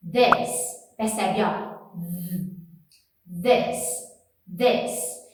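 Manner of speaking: "This" with a buzzing th between the teeth; voiced th. Shown as a demonstration. Teacher modeling "this" with voiced th. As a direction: vibrate the th in "This". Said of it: "faço esse som que vibra".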